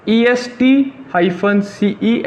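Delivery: ईएसटी hyphen सीई ऐसा dictated at x0.5; slow spelling. Shown as a demonstration. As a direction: dictate it letter by letter. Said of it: "क्या लिखना है?".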